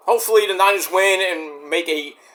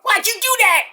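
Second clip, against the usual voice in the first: imitating Jason Jordan. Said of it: "Jason Jordan, like".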